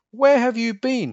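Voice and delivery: loud, high angry bellow; thundering king. Acted. The king scolds his runaway niece, thundering. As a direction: thunder it at her. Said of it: "he thundered".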